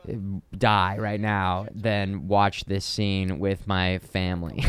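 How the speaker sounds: slow, dragged-out inner groan of dread; mortified inner voice. Retold or imitated. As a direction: drag it out like enduring family embarrassment. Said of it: "you're just like".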